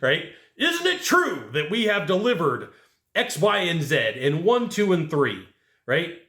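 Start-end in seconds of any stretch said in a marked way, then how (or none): 0.6-5.5 slow mock lawyer questioning; lightly voiced attorney; courtroom lawyer. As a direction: question them like a witness on the stand. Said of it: "It's like a court of law".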